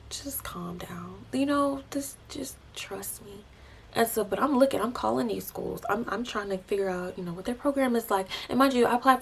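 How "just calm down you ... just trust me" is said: softly voiced, slow soothing words; gently quoting God as a calm comforter; calming reassurance. God reassuring her in retold words.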